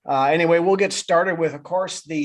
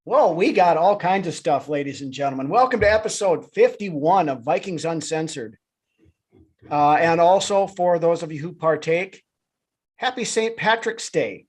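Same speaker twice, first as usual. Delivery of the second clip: bad Irish accent. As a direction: put on a corny Irish accent for St Patrick's Day. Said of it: "uh, bad Irish accent".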